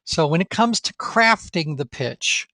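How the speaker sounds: slow delivery with crafting emphasized; crafting picked out deliberately in a slowed phrase; stress on crafting. Real, not acted. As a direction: draw out and underline the word crafting. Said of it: "you just heard me emphasize the word crafting".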